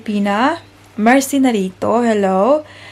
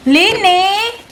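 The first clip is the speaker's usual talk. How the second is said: yelling across the room; 9 semitones higher than usual. Real, not acted. Calling daughter from across room.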